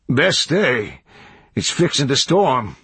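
lightly voiced country hermit; hermit urging. A narrator's reading. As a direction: warn like a backwoods old man. Hermit warns of storm.

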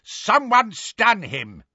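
high, drawn-out order; Death Eater's shout. A narrator's reading. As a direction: shout urgently for help from the others. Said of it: "the Death Eater shouted".

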